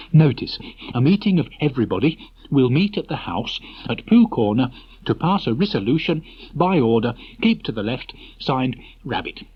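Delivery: lightly voiced pompous Rabbit; official notice. Rabbit's notice read aloud.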